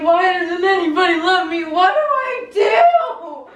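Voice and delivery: put-on overdramatic kid howling her despair; mock bawling. Child hiding under a trailer, mock-wailing to herself. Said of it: "I'm just bawling my eyes out".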